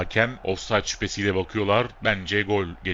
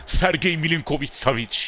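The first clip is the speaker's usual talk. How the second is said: excited goal call; 7 semitones higher than usual. Real, not acted. Commentator calling the rebound goal, excited high shout. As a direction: shout the scramble as it goes in.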